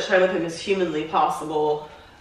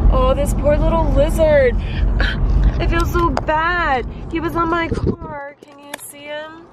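upset about the lizard; 6 semitones higher than usual. Real, not acted. Worried about lizard on car.

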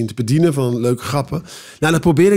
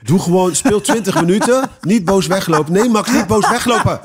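inner pep talk; 4 semitones higher than usual. Retold or imitated. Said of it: "dan denk ik".

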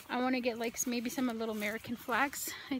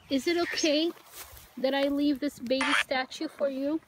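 raised, careful asking voice; calling out gently; 2 semitones higher, 4 dB louder than usual. Real, not acted. Visitor offering a statue to a spirit, calling out gently.

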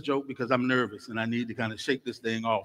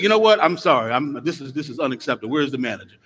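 indignant customer; 4 dB louder than usual. Acted. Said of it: "She said".

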